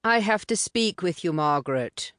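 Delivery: a hint of a posh English private school accent; urgent, in a light English public school accent. A narrator's reading. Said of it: "English private school accent".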